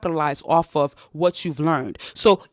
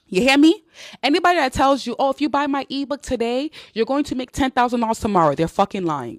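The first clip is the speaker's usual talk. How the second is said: fired-up rant; 6 semitones higher than usual. Real, not acted. Angry warning against scammers.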